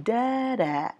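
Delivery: sung-out "đa đạ", up then down; rise-and-fall tune. Shown as a demonstration. Teacher showing learners how intonation slides, rise-and-fall tune. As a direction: glide "đa" up and drop "đạ", drawn out. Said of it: "nó sẽ cũng đi theo lên, lên và xuống".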